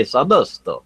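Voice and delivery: brief mock-accented Sadosto; put-on accent. Host can't help saying Sadosto, put-on accent. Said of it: "have to say it in that accent".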